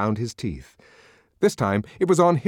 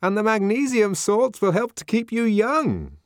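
nervous coaxing; 13 semitones higher, 4 dB louder than usual. A narrator's reading. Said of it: "rather nervous smile of propitiation".

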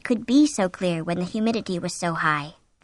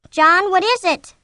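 high, loud, drawn-out plea; alarmed question; 10 semitones higher, 7 dB louder than usual. A narrator's reading. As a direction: demand an answer in fright. Frightened wife calls to husband.

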